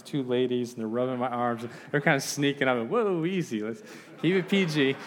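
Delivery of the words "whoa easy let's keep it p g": high, loud comic protest; mock alarm. Visitor to ladies stroking his arms, comic high alarm. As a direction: playfully fend someone off, pitch jumping up.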